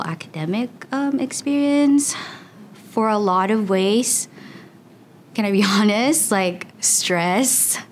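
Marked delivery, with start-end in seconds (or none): 5.3-7.8 breaks into a short real laugh mid-question; a sheepish laugh before the confession; laughing aside. Real, not acted. Student about to admit stress, laughing sheepishly.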